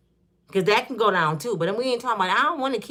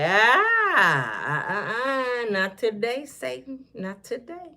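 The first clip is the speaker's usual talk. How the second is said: mock exorcism; 2 semitones higher, much slower than usual. Throwing up the Bible at a crazy person, mock exorcism. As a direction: hold up the Bible and cast out evil.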